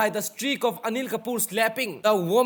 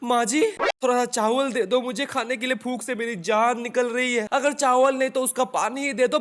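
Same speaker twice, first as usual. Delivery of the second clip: mock pleading; 3 semitones higher than usual. Acting a starving beggar child.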